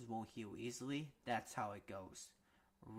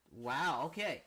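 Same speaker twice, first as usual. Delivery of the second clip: surprised; 2 semitones higher, 6 dB louder, slower than usual. Real, not acted. Amazed reaction to panel.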